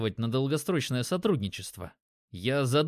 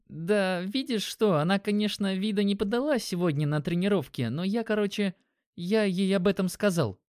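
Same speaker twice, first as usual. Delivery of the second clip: put-on young guy, shy confession; 6 semitones higher than usual. Dimon's voice, higher.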